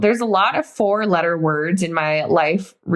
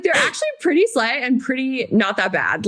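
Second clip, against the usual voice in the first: higher voice, laughing through it; laughing defense; 5 semitones higher than usual. Real, not acted. Laughing while defending Satanism.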